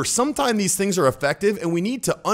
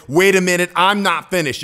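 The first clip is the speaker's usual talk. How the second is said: step change in tone; 5 dB louder than usual. Retold or imitated. Imitating Trump's sudden interruption, a louder step change. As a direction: jump louder into "Wait a minute". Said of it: "Anytime you change tonality in a step change".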